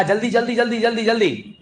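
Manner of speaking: rapid-fire hurrying repetition; urging. Real, not acted. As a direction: hurry the class along in one quick run. Teacher hurrying the class along. (जल्दी मचाते हुए)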